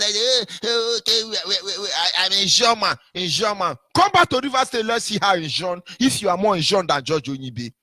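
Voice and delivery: lightly put-on mocking voice of a rival; a hint of mock rival; mimicking Asari. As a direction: parody him with a half-hearted foreign-sounding voice. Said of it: "He's like".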